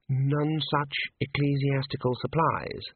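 slow, measured helpful answer; monk slowly supplying the name; worried, helpful monk. Acted. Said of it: "said the worried monk helpfully".

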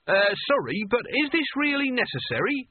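high, nervous and pleading; anxious Nigel. A narrator's reading. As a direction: plead politely with the giant. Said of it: "said Nigel desperately".

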